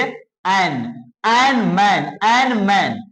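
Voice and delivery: "एन" then "मैन", each set apart on the same vowel; match the vowel of "एन" in "मैन"; rhyming sound demo. Shown as a demonstration. Teacher breaks down the word for pupils, sound demo. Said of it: "मैन को आप एन के साथ".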